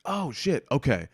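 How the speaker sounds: high startled gasp of realization; sudden high surprise; surprised oh shit. Retold or imitated. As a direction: catch yourself mid-realization. Realizing who the man was.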